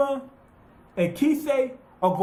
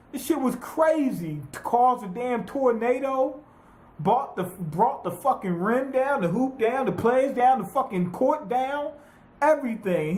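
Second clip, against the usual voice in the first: pitched higher, slowing on the big lines; hyped up; 5 semitones higher than usual. Real, not acted. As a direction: pile it on higher with each clause. Hyping the dunk.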